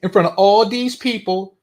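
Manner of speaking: mocking her complaint; mocking her words. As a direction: throw her words back with scorn. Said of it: "notice how she values the opinion".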